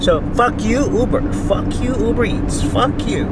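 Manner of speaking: high-pitched cursing at a company; worked-up, repeated swearing; really pissed. Real, not acted. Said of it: "Really pissed".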